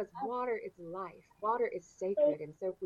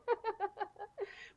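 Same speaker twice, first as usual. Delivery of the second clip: high, rippling real laugh; amused laughter; 12 semitones higher, 4 dB quieter than usual. Real, not acted. Guest offers help with geography, high amused laughter. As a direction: keep laughing after the offer.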